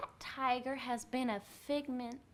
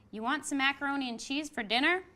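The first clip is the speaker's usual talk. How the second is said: a lightly voiced father, higher and louder, quick and casual; father asking; 5 semitones higher, 7 dB louder, faster than usual. Teacher reading Rob's father offering dinner, lightly voiced. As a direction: toss the question off like a dad at dinner.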